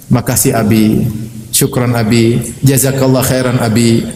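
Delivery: gentle low-pitched thanks; grateful wife. Retold or imitated. Wife thanks husband for a cheap meal, gently grateful. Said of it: "istrinya bilang apa?".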